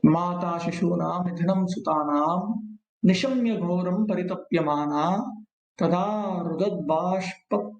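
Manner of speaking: slow devotional recitation; verse recitation. Acted. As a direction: chant the Sanskrit verse, measured and steady.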